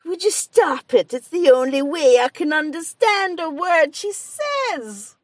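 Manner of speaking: put-on high, loud, slow Mayo accent; slow, broad Mayo accent in a high voice; strong Mayo accent. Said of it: "And my father-in-law said".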